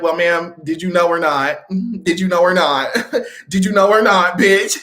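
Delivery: pressing question, breaking into laughs; mock interrogation through laughter; laughing demand. Vanya pressing Pogo for an answer, laughing. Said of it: "Vanya was like".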